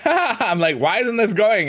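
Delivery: high laughing frustration. Real, not acted. Streamer laughing at the stuck wrestling game. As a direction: laugh through the question.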